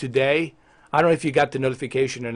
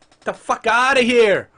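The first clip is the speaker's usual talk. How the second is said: angry dismissal; 7 semitones higher, 4 dB louder than usual. Acted. Streamer ranting about missing Halo gameplay, angry dismissal. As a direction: yell it in outraged disbelief.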